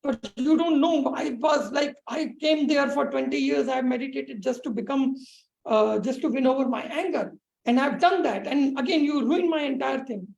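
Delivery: yogi protesting at the woman, rising and heated; angry yogi. Retold or imitated. Yogi insisting to the woman he conquered his anger, indignant. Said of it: "he was very angry".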